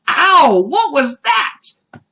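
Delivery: high, loud comic yelp; hammed-up ouch and bewilderment; Goku, hurt and puzzled. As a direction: cry out in drawn-out mock indignation. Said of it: "he's just like".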